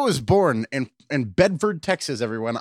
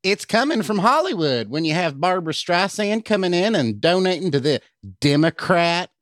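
a light put-on Boebert voice, higher; half-hearted Boebert impression, slightly higher; mock Lauren Boebert; 3 semitones higher than usual. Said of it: "I wanna try this one".

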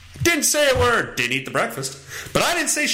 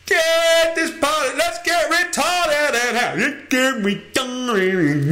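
hyped party shout; 4 semitones higher, slower than usual. Acted. Hyping up the party.

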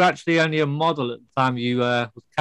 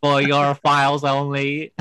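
robot voice; much slower than usual. Pretend. Robot Bond jokes.

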